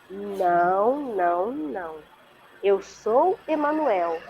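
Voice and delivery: unhurried, gentle retelling of an angel's voice; soft creamy voice. Retold or imitated. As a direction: correct her tenderly, drawing the words out. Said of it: "assim, suave, cremosa". (imitando um anjo de voz suave e pausada)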